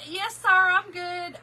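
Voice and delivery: slow, high and teary; trying to sound fine through tears; choked-up yes sir; tearful. Retold or imitated. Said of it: "he heard the, that whole cry".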